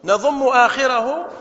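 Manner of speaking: نضم آخره slowly, stress on نضم. Shown as a demonstration. Teacher to students, slow stressed نضم آخره. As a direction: draw out نضم آخره, leaning hard on نضم. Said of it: "طيب".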